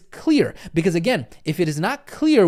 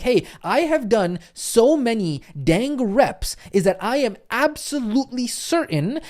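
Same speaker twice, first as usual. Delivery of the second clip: slow, higher, deliberate certain voice; slowed-down show of total certainty; mock certainty; 3 semitones higher, slower than usual. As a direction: lay each word down like a settled fact. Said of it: "Versus certainty is like".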